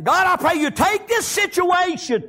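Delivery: high, urgent plea to God; pleading prayer. Acted. Preacher praying over his situation, urgent high plea. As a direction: lift the voice up in supplication.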